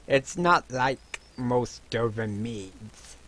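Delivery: hint of a dwarf tavern keeper; lightly voiced dwarf innkeeper. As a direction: lightly play a proud dwarven brewer.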